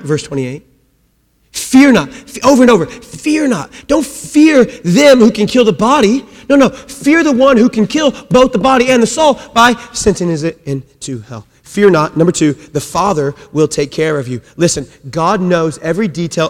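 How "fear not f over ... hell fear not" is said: high, loud "Fear not" preaching; emphatic preaching. Acted. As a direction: hammer the command home.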